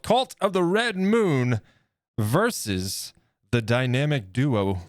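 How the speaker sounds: slow, drawn-out ring announcer. Acted. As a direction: call the matchup like a ring announcer. Announcing tag team face-off.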